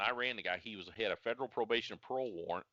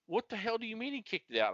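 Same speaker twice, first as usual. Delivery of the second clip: retold sergeant, pitched up in disbelief; mock angry sergeant; 13 semitones higher than usual. Sergeant grilling the officer, pitched up in disbelief. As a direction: play the outraged sergeant.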